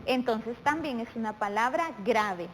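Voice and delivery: usual speaking voice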